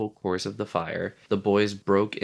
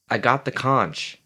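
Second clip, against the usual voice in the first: bleak; 4 semitones higher, 3 dB louder than usual. Acted. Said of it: "said Piggy bleakly".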